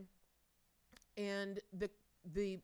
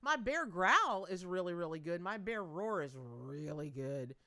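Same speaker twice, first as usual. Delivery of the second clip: bear growl; 5 semitones lower than usual. Pretend. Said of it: "I'm working on my bear".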